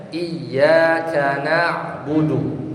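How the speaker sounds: slow recitation, doubled y in "Iyyaka"; "Iyyaka" as iy-yaa-ka, slowly chanted; correct, with tasydid. Shown as a demonstration. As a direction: draw it out, pressing the y of "Iyyaka". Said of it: "dengan tasdid".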